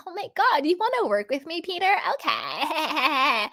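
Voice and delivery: hammed-up eager pick-me, giggling at the end; giddy pick-me. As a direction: squeal it like she's flattered to be chosen. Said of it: "that pick me energy where she's like".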